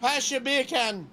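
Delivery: "beer can" as Jamaican "bacon", slow; lightly hammed Jamaican accent; mock Jamaican accent. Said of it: "saying bacon in Jamaican".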